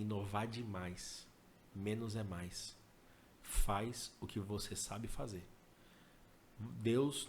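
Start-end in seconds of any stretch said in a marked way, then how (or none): 1.7-5.5 slow emphatic advice. Real, not acted. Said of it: "conselho dado devagar".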